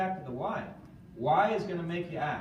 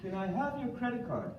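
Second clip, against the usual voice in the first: higher-pitched imitation of a friend; Arthur; 6 semitones higher than usual. Friend turns to a prospect for the sale, higher-pitched playful imitation. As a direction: imitate him asking lightly, voice lifted. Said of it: "I can see Arthur doing it".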